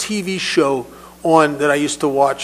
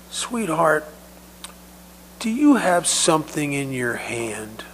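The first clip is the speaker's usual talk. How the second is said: put-on soft, near-whispered question to a child; gentle coaxing; 4 dB quieter than usual. Paramedic kneels down to the trapped little girl, gentle coaxing. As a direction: coax a frightened child softly.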